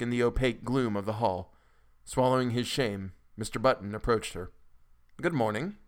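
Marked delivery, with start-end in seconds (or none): 5.2-5.8 pleasant. A narrator's reading. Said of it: "looking up at him pleasantly".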